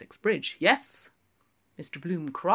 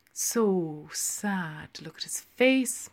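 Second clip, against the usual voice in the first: condoling; 2 semitones higher, slower than usual. Acted. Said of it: "Miss Deuce condoled".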